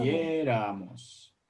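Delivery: Quisiéramos drawn out slowly, syllable by syllable; slow modelling. Shown as a demonstration. Teacher models the word for students, slow and spelled out. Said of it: "No, esto no es pasado".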